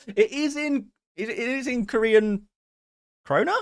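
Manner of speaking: high-pitched, laughing disbelief; giggly and incredulous; amused laughing. Real, not acted. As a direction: read it out through a laugh. Amused by the chat request.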